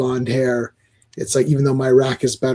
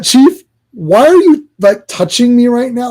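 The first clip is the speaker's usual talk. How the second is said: mock Batman complaint; 7 semitones higher, 7 dB louder than usual. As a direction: play an awkward Batman, pitched up. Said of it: "it's like".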